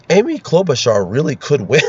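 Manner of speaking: mock-sincere claim, on the edge of cracking up; failed straight face. Shown as a demonstration. Host attempting to claim the candidate could win, barely straight-faced. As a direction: try to say it earnestly while holding back laughter. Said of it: "can't even say it with a straight face".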